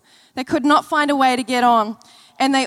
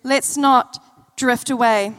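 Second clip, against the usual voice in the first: gentle reminder; 3 semitones lower than usual. Shown as a demonstration. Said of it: "tell the person next to you".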